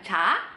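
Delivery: "ca" as a crisp Indonesian ch; wrong, plain C. Shown as a demonstration. Teacher contrasting what it is not, plain C. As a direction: say "ca" with no buzz and no puff. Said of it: "Beda kan?".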